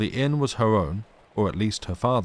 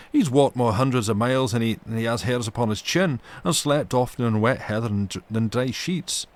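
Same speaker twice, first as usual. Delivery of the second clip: loud, raised angry rant; fury; 3 semitones higher, 4 dB louder than usual. Acted. Alan scolding the maid, loud indignant rant. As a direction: keep the anger up, louder than usual. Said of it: "with a kind of fury".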